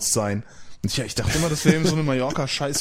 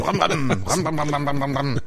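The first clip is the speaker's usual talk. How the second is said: high revving ram ram; moped engine noise; 3 semitones higher, slower than usual. Pretend. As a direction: rev it like a moped. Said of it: "fahr ich noch mit dem Moped".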